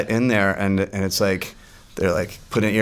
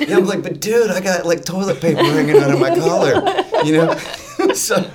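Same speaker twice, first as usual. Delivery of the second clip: high, loud, laughing through the words; giggling retelling; 11 semitones higher, 6 dB louder than usual. Retold or imitated. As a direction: crack up while telling it. Laughing retelling of awkward moment.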